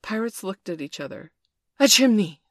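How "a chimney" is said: loud, higher astonished cry; excited exclamation. A narrator's reading. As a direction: call out the discovery. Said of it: "they both exclaimed".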